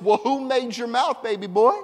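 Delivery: teasing God voice. Retold or imitated. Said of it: "And God says".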